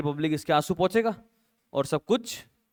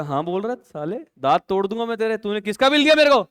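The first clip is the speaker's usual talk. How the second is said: angry phone rant; 2 semitones higher than usual. Acted. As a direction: threaten a friend over the phone, heating up. Goli scolds Poli on phone.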